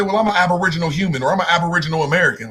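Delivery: rushed mock example. Shown as a demonstration. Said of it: "you naturally can't come out and say".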